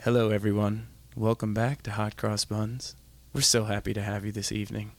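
low, soft radio host intro; hushed, unhurried late-night welcome. Pretend. Taking a turn at the song intro, late-night DJ voice. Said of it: "I'm gonna take what you had".

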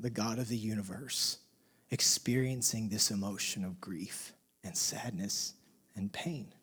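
low, hushed and weighty; quiet, reverent lowering of the voice; solemn hush. Real, not acted. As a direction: sink softly into near-whispered gravity. Solemn reflection on God's grief.

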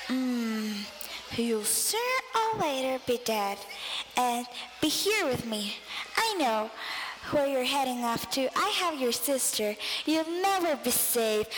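menacing ghost whisper-like voice; slow theatrical villain menace. Acted. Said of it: "That voice was so weak".

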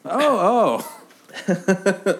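high, cackling witch gasp. Pretend. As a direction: play it like a startled old witch. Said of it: "I'll tone down on the witch voice".

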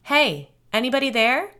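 high, loud searching call. A narrator's reading. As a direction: holler to whoever might be out there. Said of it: "Matthew called into the woods".

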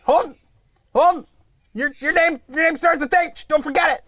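put-on yelling at a kid. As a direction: call the kid in, fed up. Calling after a son.

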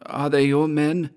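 high-pitched character question; questioning Georg. A narrator's reading. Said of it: "asked Georg".

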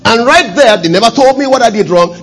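high, loud outrage from the pulpit; indignant retelling. Retold or imitated. Retells his public firing.

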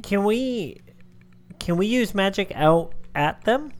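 lightly voiced adventurer; just a hint of in-character speech. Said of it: "I did that in character voice".

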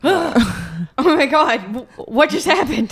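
dizzy shock. Acted. Dizzy after teleport.

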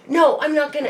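high, loud stubborn no; defiant refusal. Retold or imitated. Boyfriend refusing to stay at the hospital, loud and defiant. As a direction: dig in like a stubborn child.

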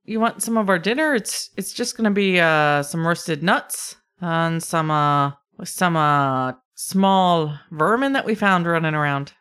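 light, hesitant Scottish lilt; kobold Scottish brogue. Acted. Kobold offers Reese dinner, light Scottish brogue. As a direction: offer food in a mild brogue. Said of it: "Scottish brogue".

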